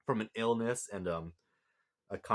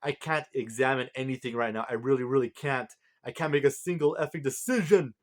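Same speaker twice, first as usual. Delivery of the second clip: mild flip-out, pitch climbing toward the end; exasperated retold outburst, rising; mock freak-out; 3 semitones higher, 4 dB louder than usual. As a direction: act out someone losing it, building to a louder finish. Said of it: "just kinda flips out and says".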